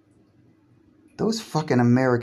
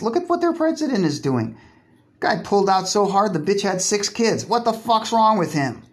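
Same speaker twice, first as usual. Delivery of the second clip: mocking island gossip, pitched way up; 7 semitones higher than usual. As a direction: squeal it like a scandalised busybody. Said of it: "they're like".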